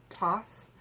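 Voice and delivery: Thoth said with a plain T-like opening and a final s; alternative pronunciation. Shown as a demonstration. Showing viewers how some people pronounce it, alternative pronunciation. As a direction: say Thoth roughly as "toss". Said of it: "some people pronounce it".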